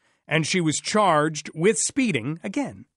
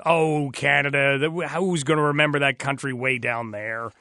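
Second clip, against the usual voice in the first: a dismissive jab at Canada in a put-on voice; quoted Simpsons character; 3 semitones lower than usual. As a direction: toss it off like a clueless cartoon American. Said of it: "Look at Simpsons".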